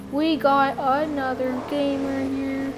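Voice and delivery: slow, drawn-out gamer announcement; hammed-up commentator stretching the words; funny commentary. Shown as a demonstration. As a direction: commentate it in a lightly put-on funny voice. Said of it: "when you just wanna commentate funnily".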